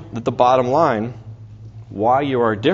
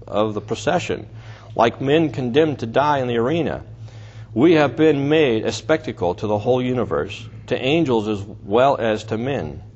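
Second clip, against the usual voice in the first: sarcastic reading. Acted. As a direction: read Paul's words with biting irony. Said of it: "you hear Paul's sarcasm here".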